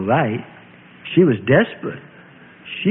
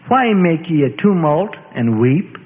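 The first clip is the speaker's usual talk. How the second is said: loud question; 3 semitones higher, slower than usual. Acted. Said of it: "Jesus asked loudly".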